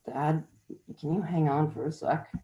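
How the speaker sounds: soft, weak sick voice; nasally sick voice. Acted. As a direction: feeble sick whine. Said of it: "nasally sick voice".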